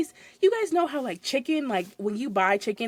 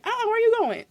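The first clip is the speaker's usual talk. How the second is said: whiny customer; 12 semitones higher, 4 dB louder than usual. Retold or imitated. Customer voiced, high.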